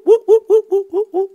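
playful marker calls; laughing whoops. Pretend. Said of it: "so I'm just gonna go whoop".

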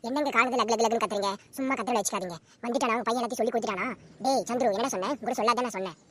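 loud, quick scolding wife; angry retort. Acted. Wife yelling back at her husband, loud and scolding. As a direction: snap back at the nagging husband.

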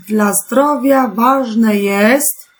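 slow reading. Shown as a demonstration. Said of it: "teacher reads sentence slowly".

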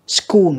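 "School" with C sounded as K; hard C. Shown as a demonstration. Teacher sorting C sounds for pupils, hard C in "School". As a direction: say "School" with a K after the S. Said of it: "cũng là âm cờ".

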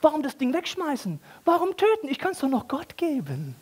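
high, cheeky self-justifying voice; scheming worshipper thought. Acted. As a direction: pitch it up like a cheapskate pleased with his idea. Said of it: "Aber er denkt sich".

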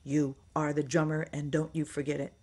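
lightly imitated accent, firm instruction; a hint of his accent, laying down the law; mild imitation of a bandmate's accent; a drummer's accent. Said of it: "with his accent".

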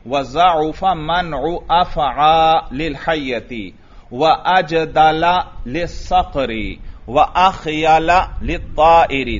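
slow recitation, अफ़आ ending in long aa, no n; measured Arabic recitation, अफ़आ without tanween; gair munsarif reading. Shown as a demonstration. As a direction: read अजदला and अख़यला with a plain -a ending. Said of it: "लिहाजा यूं पढ़ेंगे".

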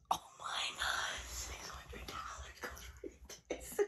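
teary whisper, breaking up high and soft; happy tears. Real, not acted. Streamer tells viewers she's happy, crying in a whisper. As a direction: cry it out through joy. Crying over six hundred dollars.

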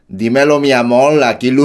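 trying out a Puerto Rican accent. Shown as a demonstration. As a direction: rehearse it with a Boricua lilt. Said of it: "Tengo que, tengo que decirlo en acento boricua".

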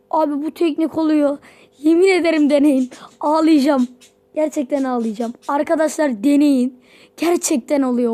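loud, thrilled urging; overjoyed loud pitch to try the trick; excited. Real, not acted. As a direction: shout to the viewers that it works. The trick works, box opening.

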